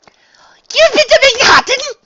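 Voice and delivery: high breathless whisper, amazed; astonished whisper. A narrator's reading. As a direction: gasp it out in a whisper.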